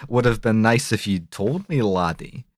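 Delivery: lightly put-on, clumsy Scottish accent; a hint of dodgy Scots; bad Scottish accent. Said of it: "inexplicable bad Scottish accent".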